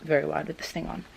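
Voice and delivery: talking through a tight face mask; speaking with the jaw held nearly shut; mouth barely open. Real, not acted. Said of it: "physically can't open my mouth very wide".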